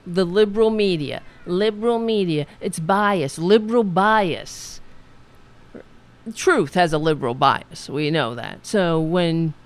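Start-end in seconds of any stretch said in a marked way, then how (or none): 0.1-4.8 mocking complaint. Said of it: "they constantly cry".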